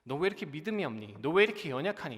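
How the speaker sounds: mild imagined rebuke; 꾸짖는 말투. Retold or imitated. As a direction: scold lightly, as if reproaching weak faith. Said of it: "책망하는 것처럼 느껴졌어요". (가볍게 책망하듯)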